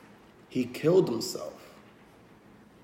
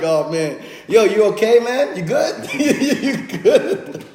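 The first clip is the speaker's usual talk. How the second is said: much higher, asking through laughter; laughing nephew; 7 semitones higher, 6 dB louder, slower than usual. Retold or imitated. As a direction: imitate the nephew cracking up as he asks. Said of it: "This nigga just starts laughing".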